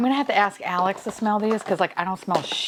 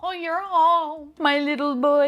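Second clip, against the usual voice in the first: ecstatic laughing; 10 semitones higher, 3 dB louder than usual. Real, not acted. Finally pulls Dale.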